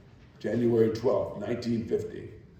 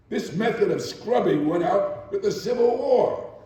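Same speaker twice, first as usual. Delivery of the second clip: flaring anger; 4 semitones higher than usual. Acted. Maid at last refuses her employer, angry protest. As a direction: let the anger flare up against her. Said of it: "And suddenly it flared".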